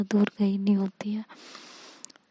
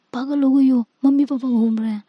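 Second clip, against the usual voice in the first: louder, urgent scolding of a reckless friend; alarmed scolding; 3 semitones higher, 5 dB louder than usual. Acted. Anika pulling her friend back from the window, urgently scolding her louder. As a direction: yank her back with a loud, urgent warning.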